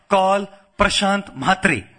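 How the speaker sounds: put-on slow voice command in an Indian accent. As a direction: imitate an Indian-accented caller, word by word. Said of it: "this man speaking in his Indian accent".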